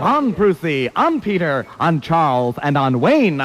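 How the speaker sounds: rhythmic roll call of names, then verse; poem recitation. Acted. Partner parodies the reindeer roll call, poem recitation.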